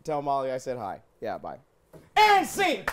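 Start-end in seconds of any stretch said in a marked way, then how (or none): 2.2-2.8 announcing the scene's end. Real, not acted. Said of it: "host ends the scene".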